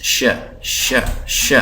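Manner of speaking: isolated ش as a short "sha"; sound demonstration. Shown as a demonstration. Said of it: "اس کو ہم پڑھتے ہیں شین". (ش کی آواز الگ الگ نکالنا)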